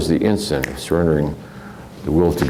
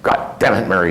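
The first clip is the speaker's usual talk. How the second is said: mad grandfather. Retold or imitated. Grandfather sits by his plants cursing his wife, mock angry. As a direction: imitate grandpa's temper, without real shouting. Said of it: "then he'd get mad".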